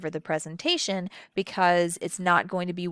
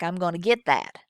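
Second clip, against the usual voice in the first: Southern accent. Shown as a demonstration. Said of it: "in the South, I might say something like".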